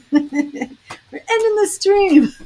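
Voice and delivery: high, slow, put-on announcer voice; mock official YouTube voice. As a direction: drag it out like a stern robot shutting you down. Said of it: "they were like".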